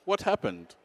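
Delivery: patient, even question; lightly voiced calm old man; calm grandfather. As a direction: ask it mildly, untouched by the shouting. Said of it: "my grandfather is a very calm person".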